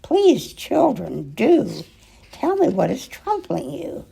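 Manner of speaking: high, pleading governess voice; worried Miss Clavell. Acted. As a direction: beg the children to tell, rising high. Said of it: "And she said".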